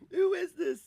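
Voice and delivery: shouted high and loud; loud high-pitched who is this. Real, not acted. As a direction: yell it out in disbelief. Reacting to chat voice.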